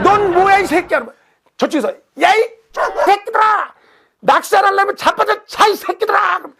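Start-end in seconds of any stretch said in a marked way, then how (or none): 0.0-1.0 angry shout. Retold or imitated. Angler yelling back at the one who complained, high and angry. Next angler joins the fight. 2.2-6.4 high, yelled curse across the reservoir; shouting at everyone. Retold or imitated. Far angler yells at everyone.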